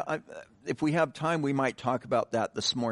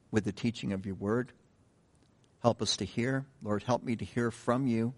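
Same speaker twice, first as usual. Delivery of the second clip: earnest, hushed prayer voice; pastoral prayer. Acted. Pastor leads an opening prayer.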